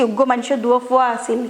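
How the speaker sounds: the same line lightly in Chittagonian dialect; Chittagong dialect. Shown as a demonstration. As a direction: give it as a Chittagong local would, without much put-on. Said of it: "এটা হচ্ছে চিটাগাংয়ের আঞ্চলিক ভাষা".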